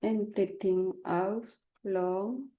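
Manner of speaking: calm unhurried meditation guidance; guided meditation. Acted. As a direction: lead them gently with long pauses. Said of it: "I will start Togai meditation".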